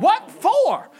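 high-pitched, puzzled retort; mock bafflement. Customer to cashier who urged another purchase, mock bafflement. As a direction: imitate being caught off guard.

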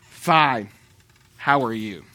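low, reluctant, curt-sounding mock reply; imitating irritated stranger. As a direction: answer grudgingly, as the irritated man. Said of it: "I could tell he was irritated".

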